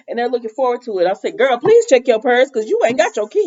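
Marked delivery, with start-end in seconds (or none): 1.4-3.4 raised, sassy mock telling-off; playful scolding. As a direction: scold her like a girlfriend, pitched up. Scolding a character from the show.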